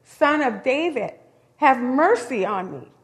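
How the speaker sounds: beggar calling out loudly, pleading; crying out. Retold or imitated. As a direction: shout it up the road to be heard. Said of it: "So he screams".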